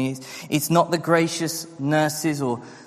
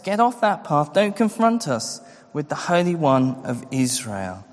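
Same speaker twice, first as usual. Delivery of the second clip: mock demand; 5 semitones higher than usual. Preacher voicing people's demands.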